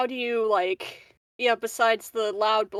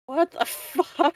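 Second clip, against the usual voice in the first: slow, higher-pitched disbelief with a laugh; baffled officer; 6 semitones higher, 3 dB louder, slower than usual. Acted. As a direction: draw it out, incredulous and amused. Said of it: "she's like".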